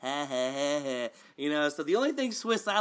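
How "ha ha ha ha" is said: mock smirking laugh. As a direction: fake smug "ha ha ha". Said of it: "that's a smirk".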